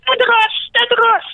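very high shrieking creature cry; creature scream. Acted. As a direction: shriek it in pain and rage. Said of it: "qui cria". (hurlement aigu de la créature)

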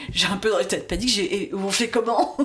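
rire dans la voix, panique racontée; en riant. Real, not acted. (elle rit en racontant son arrivée paniquée en cabine)

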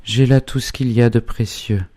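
high-pitched, restrained indignation; indignant declaration. A narrator's reading. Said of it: "dans un accès d'indignation sauvage". (indignation contenue, voix aiguë)

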